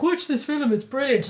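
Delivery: imitating keen partner. Teasing partner about first-date film pick, imitated eagerness. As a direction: lightly mimic an eager film recommendation. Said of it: "You're like".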